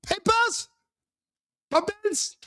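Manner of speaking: papers in a hammed-up French accent, like Pepe Le Pew; mock French accent. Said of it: "If you sound like Pepe Le Pew".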